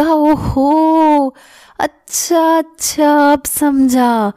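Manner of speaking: finally getting the joke, amused; amused realization. Acted. Husband laughing, finally understands. (ہنستے ہوئے سمجھ جانے والا لہجہ)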